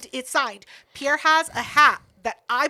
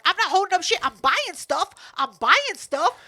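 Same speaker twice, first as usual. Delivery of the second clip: raised-pitch indignant comeback; defensive retort; 5 semitones higher, 4 dB louder than usual. Retold or imitated. Shopper accused of holding up the line, defensive retort. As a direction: push back, indignant and emphatic.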